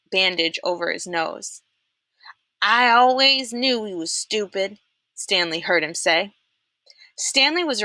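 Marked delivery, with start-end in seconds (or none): 2.6-4.8 Pendanski voice. A narrator's reading. Pendanski sneers about Zero.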